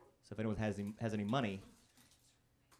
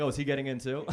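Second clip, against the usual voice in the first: louder quip with a laugh in it; laughing punchline; 3 semitones higher, 6 dB louder than usual. Retold or imitated. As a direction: deliver the joke through a laugh. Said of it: "And I was like".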